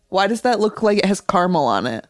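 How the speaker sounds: normal talking voice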